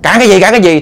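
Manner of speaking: acted-out furious challenge; angry husband. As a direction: push her aside with rapid angry questions. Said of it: "ổng mới xô bả ra".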